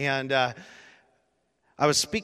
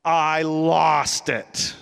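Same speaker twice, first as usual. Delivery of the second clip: choked with emotion; 3 semitones higher, 10 dB louder, much slower than usual. Real, not acted. Retelling being overcome with emotion.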